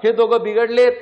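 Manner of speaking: retold yell, easing off toward the end; mock shout. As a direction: call out the alarm, only half shouting. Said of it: "काळजाला ओरडून सांगतं".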